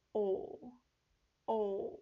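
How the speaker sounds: 오 gliding into ou; ou glide. Shown as a demonstration. Teacher showing the English ou glide. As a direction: slide the o into u. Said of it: "이렇게 오 발음이에요".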